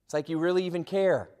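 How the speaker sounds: soft, dry and sarcastic under the breath; sarcastic aside. Retold or imitated. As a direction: mutter it with mock disbelief. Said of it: "I'm like".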